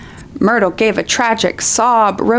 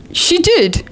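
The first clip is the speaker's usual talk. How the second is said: lame agreement; 10 semitones higher than usual. Acted. Ron voiced agreeing.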